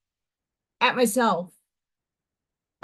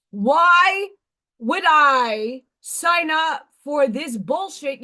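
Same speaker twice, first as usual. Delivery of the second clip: mock scream; much slower than usual. Woman retelling yelling at herself over signing up, exasperated mock scream. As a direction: retell screaming at yourself, only half raised. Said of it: "why I was screaming at myself".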